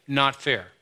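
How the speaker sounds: lightly voiced child saying "not fair"; kid's whine. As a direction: pout "not fair" like a sulking kid. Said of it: "what our kids say".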